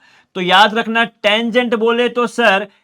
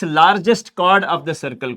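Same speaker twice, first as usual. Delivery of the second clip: slow dictation; much slower than usual. Shown as a demonstration. Dictating a term.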